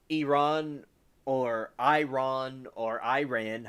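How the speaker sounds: Iran said three different ways, slowly; alternative pronunciations. Shown as a demonstration. Newsreader offering any way to say Iran, varied pronunciations. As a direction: run through the variant vowels of "Iran". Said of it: "however you wanna say it".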